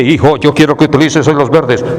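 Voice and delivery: lightly voiced solemn divine reply; mock voice of God. Mocking God's answer about shoes, solemn mock voice. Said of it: "Dios le responde".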